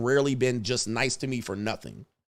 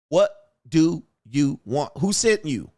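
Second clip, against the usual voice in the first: slow suspicious demand; slower than usual. Retold or imitated. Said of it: "When women approach me in public".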